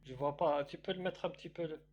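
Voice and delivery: fast rapid reading of the Arabic verse; rushed scripture reading; Quran recitation. Acted. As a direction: rattle through the recitation quickly.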